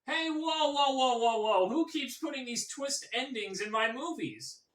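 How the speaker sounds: mock-outraged string of whoas; M. Night Shyamalan. Comic as director blaming others for his own endings, mock indignant. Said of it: "if M. Night Shyamalan said".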